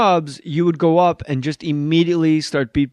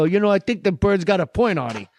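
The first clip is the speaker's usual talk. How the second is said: Hackett voice, a touch higher; Hackett-style voice; 4 semitones higher than usual. Retold or imitated. Actor's character in Paulie, Hackett-style voice. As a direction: sound just like Hackett. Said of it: "same voice for all three guys".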